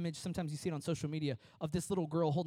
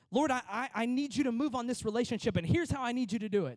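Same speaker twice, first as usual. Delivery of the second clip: demanding prayer; 4 semitones higher, 5 dB louder, faster than usual. Retold or imitated. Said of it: "That's our prayer sometimes".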